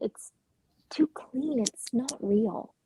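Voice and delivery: drops to a near whisper, slowing down; a hushed, slow confession. Acted. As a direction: say it softly, almost to herself. Young woman confides her doubt.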